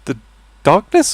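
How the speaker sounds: high squeaky cartoon mouse; chirpy high cartoon mouse voice; Mickey Mouse voice. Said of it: "Mickey Mouse wandering into a room and going".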